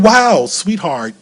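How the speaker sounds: slow, tearful wonder; moved almost to crying; choked-up slow awe; through tears. Retold or imitated. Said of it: "through my tears".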